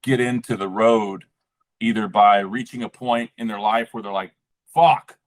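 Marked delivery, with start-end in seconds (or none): 4.7-5.2 mock scream. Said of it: "scream to the universe".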